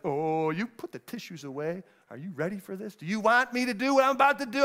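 teasing showman. Pretend. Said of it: "I would really like to play this up".

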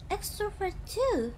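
normal talking voice

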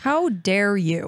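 slow, mock offended gasp; mock outrage. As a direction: play it hurt, drawn out. Mock offense at age joke.

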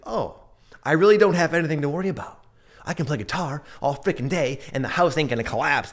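tumbling joy at realizing it's all fine; relieved excitement. Pretend. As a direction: burst out with happy relief. Relieved realization after dream.

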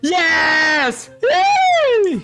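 high, loud victory shout; triumphant cheer. Real, not acted. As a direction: celebrate the win at full voice. Cheering a win in game. (grito de vitória)

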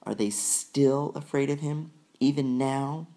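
high, tearful pleading; crying in disbelief. A narrator's reading. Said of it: "sobbed Susan".

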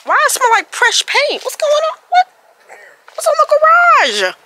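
panting between questions; out of breath. Real, not acted. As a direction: talk while winded from the stairs. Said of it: "I'm out of breath".

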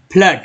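फ्लड with a short "uh", not "oo"; double O as uh. Shown as a demonstration. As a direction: say फ्लड as "flud". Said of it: "तब अ पढ़ा जा रहा है". (फ्लड में double ओ का उच्चारण अ)

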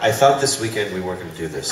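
mock bickering. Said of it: "we do this thing, uh, the Bickersons".

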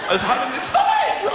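high, loud squeal cutting himself off; high mock scold. Real, not acted. Comedian squealing at the audience to stop laughing. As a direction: squeal stop it at the giggling room.

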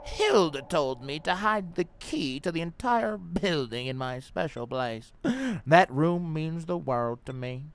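slow, dramatic note reading. Acted. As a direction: read the note out like a diary. Let me see if this is creepo.

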